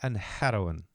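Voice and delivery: failed attempt at a subtle Pakistani accent; lightly tapped Pakistani-accented r in "heroin"; badly faked Pakistani accent; Kumail Nanjiani. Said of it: "his subtlety of how he says it".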